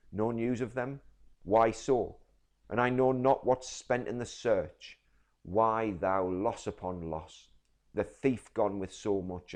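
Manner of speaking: loud, raw, grieving rage as Shylock; anguished outburst. Shown as a demonstration. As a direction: rail at the loss, almost shouting. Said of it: "So let's read it again".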